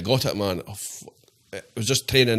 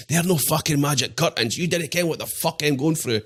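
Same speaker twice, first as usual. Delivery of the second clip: higher-pitched, mildly angry comeback; indignant retort; 4 semitones higher than usual. Retold or imitated. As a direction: retell a sweary, indignant objection. Retelling angry retort to doctor.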